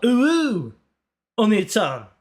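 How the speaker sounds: high-swooping "ooh" in Irish brogue; Irish accent. Shown as a demonstration. Obliging chat's request, cutesy line in Irish accent. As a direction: coo it with an Irish lilt. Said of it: "in Irish too?".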